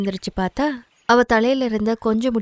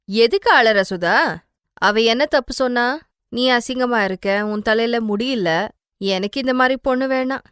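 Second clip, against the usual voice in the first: scolding mother; 3 dB louder than usual. Acted. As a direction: tell off your daughter coldly. Mother scolds crying daughter. (அழும் மகளை சத்தமாக திட்டும் அம்மா)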